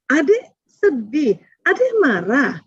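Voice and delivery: very slow, soothing naming of feelings; gentle validation. Shown as a demonstration. (pelan dan menenangkan)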